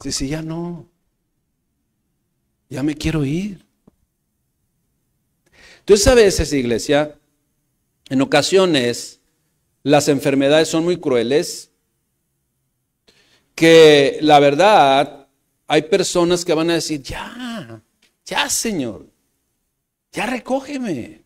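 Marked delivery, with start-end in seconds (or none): 0.0-3.6 a hint of a sick grandfather, softly; lightly voiced ailing grandfather. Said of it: "Volteó a ver y le dijo". 17.0-21.2 soft, high plea to the Lord; imitated weary plea. Voicing sick people begging God.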